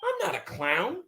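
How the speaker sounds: I'm not a clown in a high squeal; hammed-up high-pitched protest; high mock protest. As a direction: push the denial up high, mock hurt. Mock outrage at being called clown.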